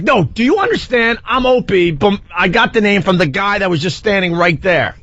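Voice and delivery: retold insistent explaining. Insisting to a fan who ignores him.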